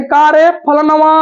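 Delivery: last vowel stretched long to call someone; mother calling out. Acted. Teacher imitates mothers calling someone, drawn-out call. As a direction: call a child with a drawn-out ending. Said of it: "किसी को बुलाने में माताएं".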